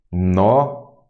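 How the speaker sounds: Notável split as no, tá, vel; "Notável" broken into isolated syllables. Shown as a demonstration. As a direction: sound out "Notável" with long pauses between syllables. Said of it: "vamos fazer aqui".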